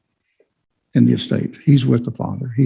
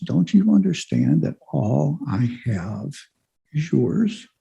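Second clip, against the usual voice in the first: slow, soft pleading question; pleading father; 3 semitones higher, 4 dB quieter, slower than usual. Retold or imitated. Father pleading with his older son, slow and soft. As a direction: gently beg him to see it, slowly and softly. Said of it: "the father pleads with him".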